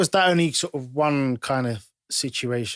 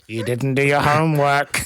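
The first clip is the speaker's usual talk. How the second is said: louder mock yell, quoting him; retold loud shout; 3 semitones higher, 5 dB louder than usual. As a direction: shout it out in imitation, through amusement.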